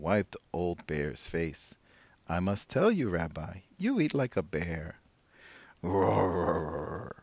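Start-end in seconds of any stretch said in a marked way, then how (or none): 2.3-5.0 put-on old woman voice. 5.8-7.2 bear roar. Acted. Bear roaring reply.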